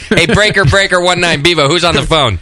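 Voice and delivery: CB radio trucker. Pretend. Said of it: "What are we on, a C B".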